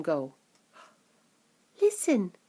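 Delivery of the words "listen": a hint of hushed boy; lightly voiced urgent hush; boy hushing his grandpa; whispering Charlie. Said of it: "whispered Charlie".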